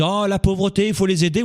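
high-pitched mock compassion; mock pity. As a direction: imitate a do-gooder lamenting poverty. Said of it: "ceux qui disent".

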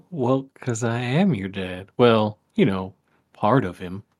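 lightly voiced folksy father; folksy dad voice. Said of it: "you're doing that freaking folksy voice".

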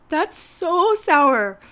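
loud shocked reaction to sour. Real, not acted. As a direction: recoil from the sourness. Just bit into sour grape.

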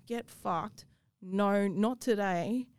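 slow, firm defiance; defiant refusal. Retold or imitated. A survivor standing up to a predator, slow and firm. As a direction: stand your ground, word by word. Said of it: "step up and say".

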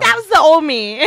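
loud, high, laughing protest; mock protest. Retelling own excuse to partner, loud and laughing. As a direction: call it out through laughter. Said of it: "I was like".

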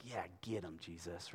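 soft sarcastic aside; muttered mock cheer. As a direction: sneer it under your breath. Mocking congregation's cheer.

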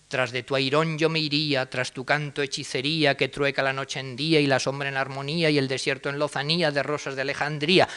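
sing-song verse reading; lilting poem reading; verse recital. Shown as a demonstration. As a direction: recite the ballad with its music. Reads modernist verse aloud.

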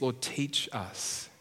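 a believer asking Jesus to teach him, humbly; humble prayer. Acted. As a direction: pray it gently, like a learner. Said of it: "which says to Jesus".

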